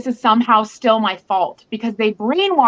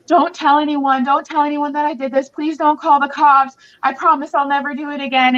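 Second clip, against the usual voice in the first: pleading ex; 5 semitones higher than usual. Retold or imitated. Abuser begs after hurting her.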